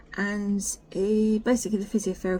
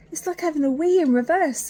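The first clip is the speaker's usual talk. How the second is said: retold quip; 9 semitones higher, 7 dB louder than usual. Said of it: "I said".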